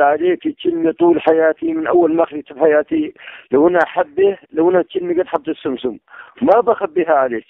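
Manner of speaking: tearful high voice breaking through sobs; crying. Real, not acted. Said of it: "طيب خلص لا تبكي". (يبكي بصوت مرتفع متقطع)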